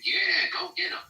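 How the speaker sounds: high, slow mock cheer from afar; mock cheering fan. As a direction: lightly play a distant flag-waver egging them on. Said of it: "waving a flag saying".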